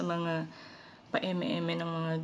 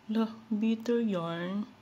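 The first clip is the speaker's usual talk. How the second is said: sarcastic inner jab; 3 semitones higher, much slower than usual. Retold or imitated. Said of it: "Sabi ko sa isip ko".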